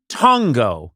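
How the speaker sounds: "tongo" slowly with a long first vowel. Shown as a demonstration. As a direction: stretch out the first syllable of "tongo". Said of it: "with a long O".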